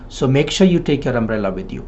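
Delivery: "So make sure" begun cleanly after the break; pause before conjunction. Shown as a demonstration. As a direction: start "So" as a fresh phrase after a pause. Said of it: "Pause is before a conjunction".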